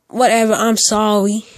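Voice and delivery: slow, half-hearted apology in a caricatured voice; stereotyped Black impression. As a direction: drag out a grudging apology, lightly caricatured. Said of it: "my stereotypical black impression again".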